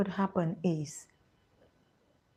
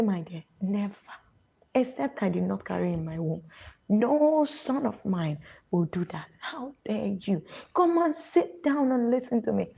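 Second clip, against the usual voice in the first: Nigerian mother; 3 semitones higher, 3 dB louder than usual. Retold or imitated. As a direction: play a strict mother who won't hear of it, rising to a scolding call. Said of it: "This is Nigerian mothers, how they speak".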